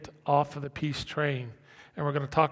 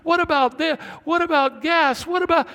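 high, loud panicked questions; frantic worrying; 12 semitones higher, 7 dB louder than usual. Acted. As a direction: pile up worries in mock panic. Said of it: "this flight thing is".

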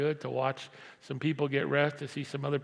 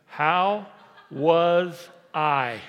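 emphatic question; 8 dB louder, much slower than usual. Shown as a demonstration. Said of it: "Everybody say that with me".

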